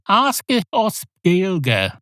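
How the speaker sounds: hint of a schoolteacher; lightly voiced teacher in Irish; mock Irish teacher.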